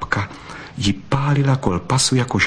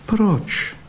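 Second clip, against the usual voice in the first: surprised why; 12 semitones higher than usual. Acted. Bystrouška asks, pitch jump.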